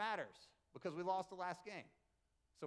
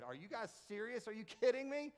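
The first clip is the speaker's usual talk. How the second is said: mock mad coach; 3 semitones higher than usual. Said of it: "I said".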